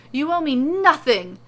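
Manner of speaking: loud, high cheerful refusal; loud and high, waving it off; exclaiming. Acted. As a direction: wave off the money with a shout. Shopkeeper refusing payment, exclaimed.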